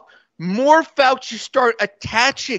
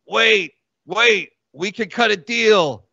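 pleading Doctor Fauci; 4 semitones lower than usual. Acted. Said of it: "He goes".

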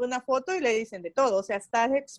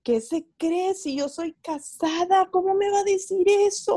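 slow, rising into indignant outrage; a friend fuming at a fan's compliment, mock outrage; mock offended friend; 4 semitones higher, slower than usual. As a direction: play the offended friend getting worked up. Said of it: "Le ofendía totalmente y decía".

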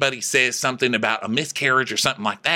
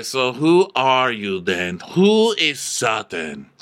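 imitated challenge; slower than usual. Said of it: "So Diana's like".

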